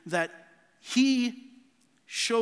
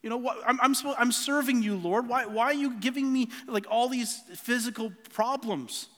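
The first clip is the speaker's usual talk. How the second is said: retold frustrated prayer; 5 semitones higher than usual. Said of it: "I was like".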